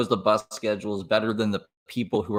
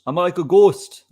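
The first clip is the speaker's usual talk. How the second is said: louder and higher, punching the joke; louder, higher repeat; 9 semitones higher, 9 dB louder than usual. Real, not acted. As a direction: say it again, louder and higher for the laugh. Repeats the line for effect.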